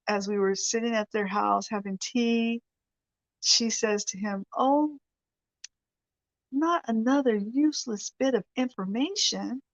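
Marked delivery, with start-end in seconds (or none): 4.6-9.6 put-on lightly done English accent, exasperated; a touch of an English lady's sigh. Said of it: "she said in her English accent".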